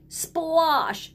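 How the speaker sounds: "Splosh!" sung out high and bouncy; playful splosh. Pretend. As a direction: splash the word "Splosh!" playfully. Splash sound words.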